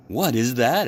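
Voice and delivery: cheerful friendly frog; a bright storybook Frog; Frog's voice. A narrator's reading.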